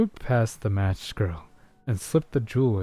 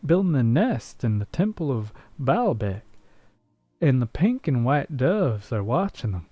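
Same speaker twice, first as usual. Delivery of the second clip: cowboy voice; 3 semitones higher than usual. Pretend. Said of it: "You want me to read as a cowboy?".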